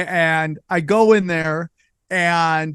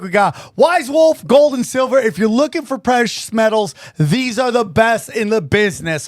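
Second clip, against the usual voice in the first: quick, upbeat sponsor pitch; host reading affiliate ad to listeners; 3 semitones higher than usual. Acted. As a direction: sell it like a podcast ad. Sponsor ad read.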